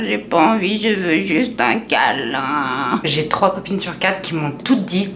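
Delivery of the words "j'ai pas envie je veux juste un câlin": whiny plea. Retold or imitated. Sad little plea.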